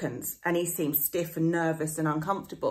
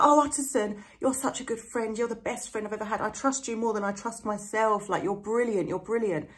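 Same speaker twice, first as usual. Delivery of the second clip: mock flattery. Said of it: "sort of flattery".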